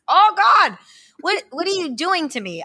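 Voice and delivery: a flustered high cry of oh God; overwhelmed groan. Real, not acted. Overwhelmed reaction.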